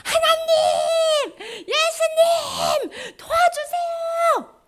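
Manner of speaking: very high, drawn-out cry for help; desperate calling. Acted. People in trouble call on God, acted desperate cry. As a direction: wail each word out long and high. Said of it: "문제가 있으면 이제 하나님을 불러".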